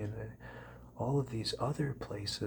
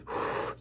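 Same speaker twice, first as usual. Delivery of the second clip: demo gasp. Shown as a demonstration. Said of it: "you could breathe through".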